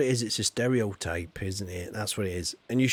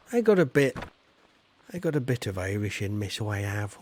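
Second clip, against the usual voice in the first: put-on Irish accent; 3 semitones lower, faster than usual. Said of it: "the Irish accent wasn't very good there".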